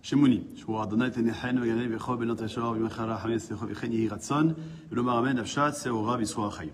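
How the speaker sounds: Hebrew recitation. Acted. Teacher opens the class with a Hebrew prayer, recited. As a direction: run through a Hebrew blessing in an even chant-like flow.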